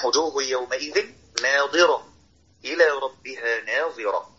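وقف واضح عند "ناظرة" ثم "إلى ربها ناظرة"; pause between verses. Shown as a demonstration. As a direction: separate "ناظرة" from "إلى" with a clear stop. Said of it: "أهو بص". (وقف واضح بين "ناظرة" و"إلى")

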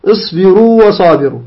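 long uu held at the end of اصبروا, then clear wa; two distinct waws in اصبروا وصابروا; correct unmerged reading. Shown as a demonstration. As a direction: hold اصبروا open before وصابروا. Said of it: "خطأ، لا نضيمها".

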